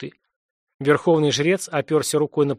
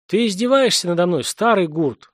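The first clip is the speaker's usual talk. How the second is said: howling in anger, a bit louder; angry howl; 4 semitones higher, 3 dB louder than usual. Acted. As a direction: cry out, stung and furious. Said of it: "взвыл Алькас".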